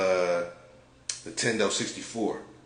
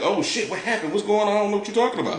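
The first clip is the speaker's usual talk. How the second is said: imitating a rattled suspect, pitched up high; mock shook; 12 semitones higher, 5 dB louder, much faster than usual. Storyteller mimicking Wayne confronted over CDs, mock shook. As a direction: act caught out, higher and a bit louder. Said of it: "Wayne looking, like, shook".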